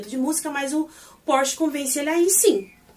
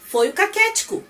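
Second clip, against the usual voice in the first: lightly voiced, pitched higher; joking fake line; 8 semitones higher than usual. Recapper faking Pete's reply, pitched higher. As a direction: toss off a cheeky fake answer up high. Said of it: "Mentira, gente".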